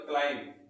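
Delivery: क्लाइंब said "klaim"; correct pronunciation. Shown as a demonstration. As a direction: close क्लाइंब on m with a fall. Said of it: "इसका pronunciation क्या हो जाएगा".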